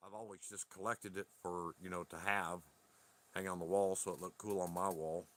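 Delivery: talking around a lit cigarette; words a bit muffled by a cigarette; cigarette in mouth. Real, not acted. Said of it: "I'm smoking a cigarette at the moment".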